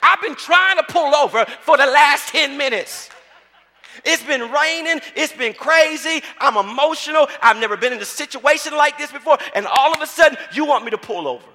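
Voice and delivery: loud, high, acted-out outrage of an upset daughter; worked-up daughter arguing with mama; exasperated protest. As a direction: protest at full volume, hammering each grievance. Daughter protests to mother, acted story.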